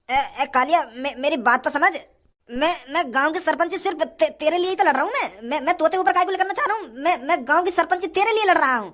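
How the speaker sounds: halting, placating excuse-making; nervous stammer. Acted. Candidate making excuses to Kalia, nervous stammer. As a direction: stumble over your first words.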